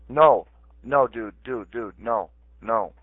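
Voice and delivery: angry refusal. Real, not acted. Refusing in a heated quarrel.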